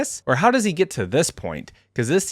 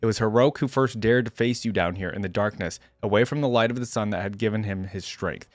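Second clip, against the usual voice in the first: measured, solemn first-person narration; dramatic story reading; 3 semitones lower than usual. A narrator's reading. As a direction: read it like a weary lone warrior's grave account. Reads first-person story aloud.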